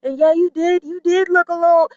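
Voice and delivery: high-pitched exaggerated praise; gushing family. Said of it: "it'd be like".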